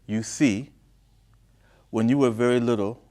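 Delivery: story narration. A narrator's reading. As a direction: read the letter out phrase by phrase. Reads the mother's letter aloud.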